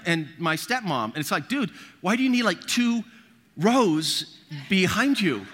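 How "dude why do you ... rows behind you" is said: mock disbelief, pitched well up; high incredulous ribbing; incredulous teasing. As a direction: tease him for the big car. Mocking the dad's big car.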